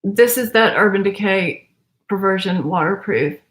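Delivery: strained, like lifting weights. Real, not acted. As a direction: push the words out with effort. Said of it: "I sound like I'm lifting weights".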